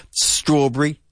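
STRAWBERRY stressed on "STRAW"; first-syllable stress. Shown as a demonstration. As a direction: lean on the start of Strawberry, "STRAW-bree". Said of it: "Enfatizando la primera sílaba".

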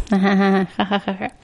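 put-on awkward laughter; imitated blank laugh. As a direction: fake a laugh when lost for words. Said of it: "como que yo estoy como". (risa incómoda fingida)

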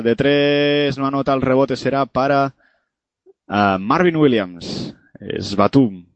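quick radio basketball commentary; live play-by-play. Acted. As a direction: call the game live as it happens. (narración deportiva en directo)

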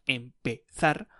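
empezar drawn out slowly, syllable by syllable; slow down on empezar so learners hear each syllable; slow, careful empezar. Shown as a demonstration. Teacher repeats empezar for learners, slowly and carefully. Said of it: "that has three syllables".

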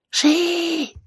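high, loud shrieked confession; screamed yes. Acted. Mikey admits selling guns to Keller, screaming. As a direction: scream the answer out.

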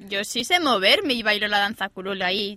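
talking through hiccups. Real, not acted. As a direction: hiccup between words. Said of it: "tengo hipo". (con hipo)

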